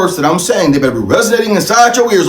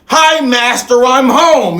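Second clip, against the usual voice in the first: mock cheerful return; 5 semitones higher, slower than usual. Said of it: "Knocked on the ... master's door".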